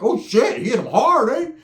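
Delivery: high, loud wowed exclamation; impressed surprise. Retold or imitated. Kid on porch watching the fight, high impressed exclaim. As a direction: gasp it out mid-bite of cereal.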